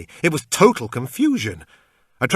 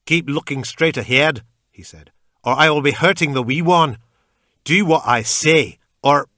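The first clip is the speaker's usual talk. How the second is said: menacing threat; 4 semitones higher, 8 dB louder than usual. A narrator's reading. Captor threatening narrator.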